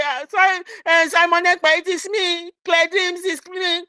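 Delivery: a fan pushing close to greet her hero, eager. Retold or imitated. Fan greeting her hero, eager and high. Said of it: "close to him and say".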